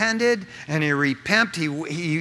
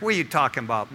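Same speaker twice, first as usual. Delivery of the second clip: lower, softer doubting question; low-key disbelief; 5 semitones lower, 3 dB quieter, much faster than usual. Acted. Imagined churchgoer doubting preacher Rick, subdued disbelieving tone. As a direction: question it under your voice, unconvinced.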